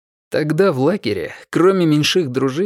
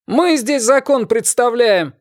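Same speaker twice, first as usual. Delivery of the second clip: angry retort; 11 semitones higher, 3 dB louder, slower than usual. A narrator's reading.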